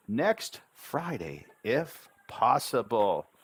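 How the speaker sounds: very slow, lifted, sing-out demo dialogue; slow syllable steps. Shown as a demonstration. Teacher modelling a flight booking to learners, slow and deliberate. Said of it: "I'll say it one more time".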